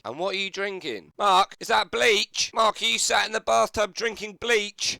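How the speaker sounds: aghast double take, voice jumping up; shocked. Real, not acted. Commentator horrified that Mark is drinking bleach, shocked shout.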